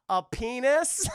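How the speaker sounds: deadpan quip breaking into a laugh; laughing heckle. Retold or imitated. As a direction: say it slowly through a laugh. Ivy heckles.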